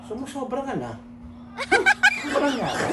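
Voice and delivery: softly teasing, lightly sarcastic; understated mocking taunt. Shown as a demonstration. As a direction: needle them quietly, pausing between phrases. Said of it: "parang nangaasar mo".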